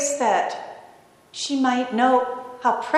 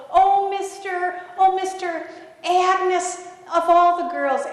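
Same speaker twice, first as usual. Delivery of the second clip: gushing; 7 semitones higher than usual. Retold or imitated. Wife gushes over Agnes in story.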